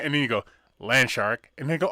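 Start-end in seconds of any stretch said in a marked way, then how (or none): 0.8-1.5 low fake voice. Joke, land shark voice.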